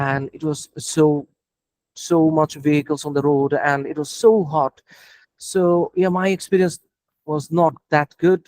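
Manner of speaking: slow, chewed-over words. Shown as a demonstration. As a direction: chew every word slowly, model answer. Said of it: "খুব চাবায়া চাবায়া উচ্চারণ করছি".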